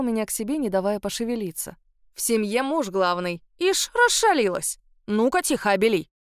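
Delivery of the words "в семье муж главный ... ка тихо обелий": playful scolding. Acted. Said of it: "пожурил меня он".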